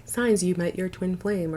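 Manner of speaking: flat, robotic listicle read. Retold or imitated. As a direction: read it like a monotone YouTube robot. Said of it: "that robotic voice that's like".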